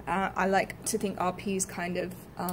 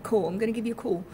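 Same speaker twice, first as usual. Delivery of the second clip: Cockney, dropped l; 2 semitones higher, much faster than usual. Shown as a demonstration. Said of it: "so that L is dropped".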